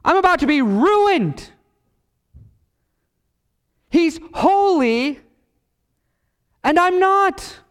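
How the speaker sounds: high, drawn-out cry of dread. Acted. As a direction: cry it out slowly as the prophet before God. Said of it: "he cries out".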